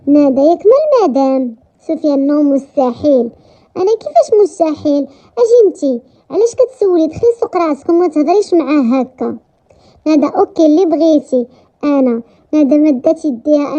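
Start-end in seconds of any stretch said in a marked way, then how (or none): 4.0-9.4 acted indignation; indignant rebuke. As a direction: confront her, voice pitched up. Acted rebuke of a nosy woman.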